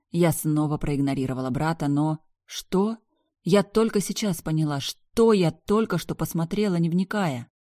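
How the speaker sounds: ordinary delivery, nothing marked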